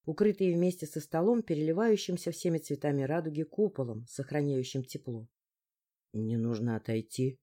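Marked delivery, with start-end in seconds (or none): 6.1-7.4 lower, soft apologetic male voice; sincerely sorry, stepping away; apologetic man's voice. A narrator's reading. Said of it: "Искренне извиняющиеся слова". (извиняющийся мужской голос)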